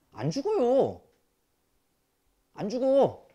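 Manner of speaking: high, loud insistence; emphatic shout. Real, not acted. Teacher shouting at lazy students, loud and insistent.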